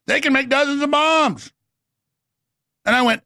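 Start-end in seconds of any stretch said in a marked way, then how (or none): 0.0-1.5 a bit higher, sweet little bunny voice; cutesy Easter bunny. Pretend. Host mimics a chirpy Easter bunny tipping him off. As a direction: play a chirpy toy bunny, lightly. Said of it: "little Easter bunny pop, and said".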